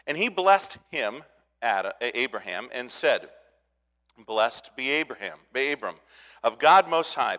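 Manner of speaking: a lightly lifted Bible reading voice; scripture reading. Acted. Pastor reads Genesis fourteen aloud, reverent reading. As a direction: read the verses with reverence.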